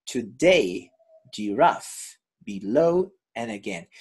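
"Today", "giraffe", "below", "again" stressed on the final syllable; shifted syllable stress. Shown as a demonstration. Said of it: "It moves from side to side".

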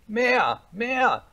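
put-on very high, loud little-boy shouting; commanding cry. A narrator's reading. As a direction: yell the orders like a bossy child. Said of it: "schrie Häwelmann". (herrisches Kindergeschrei)

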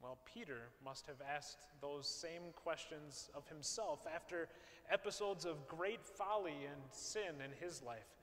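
normal talking voice

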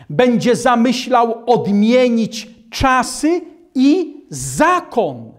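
ordinary delivery

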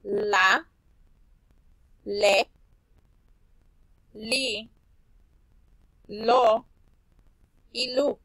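"La, le, li, lo y lu" called out loud; syllable drill. Shown as a demonstration. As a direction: chant the L syllables for the kids. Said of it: "repasar las sílabas de la L". (repaso de sílabas con L en voz alta)

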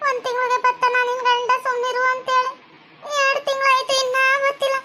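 wife crying that her husband has not come back; tearful lament. Acted. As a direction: wail out her loneliness through tears. Wife weeps for missing husband.

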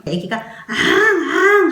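put-on slow high wail like a baby; baby wail imitation. Shown as a demonstration. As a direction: stretch out a baby's cry. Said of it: "앙 하고 울면". (느리고 높은 아기 울음 흉내)

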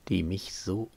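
soft, wistful close of a poem; subdued poem recitation. Acted. Lovesick man sees his beloved's eyes in the child, soft recitation. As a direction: let the verse sink softly, with pauses.

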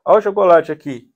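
loud mock wail turning to chocolate; child crying. Crying child offered chocolate, loud imitated wailing. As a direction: imitate a bawling child getting distracted. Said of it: "A criança tá desesperadamente chorando assim".

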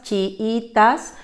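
chiitas, chi-i-tas; syllables split. Shown as a demonstration. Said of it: "separamos en tres sílabas".

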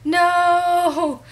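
high, loud panicked cry of dismay; alarmed dismay. Retold or imitated. Big sister seeing the toddler cry, a high loud alarmed cry. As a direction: react in horror as the kid starts crying. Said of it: "I'm just sitting here going".

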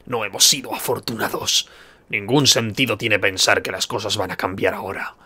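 slow, lightly voiced grim leader; grave warrior leader. Hakon tells the player they were unlucky, grave warrior leader. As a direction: speak slowly as a weary leader.

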